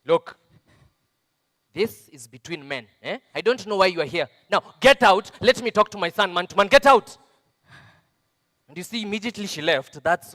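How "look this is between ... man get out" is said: husband yelling his wife out of the room; building to a furious bark of get out; angry shout. Acted. Father sends mother away, furious shout. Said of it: "but he just told me".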